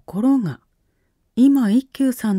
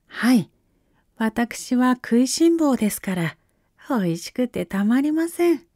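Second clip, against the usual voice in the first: put-on bright boy monk, pitched up; young boy voice; 5 semitones higher than usual. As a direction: play a cheerful young monk. Boy monk answers the shogun.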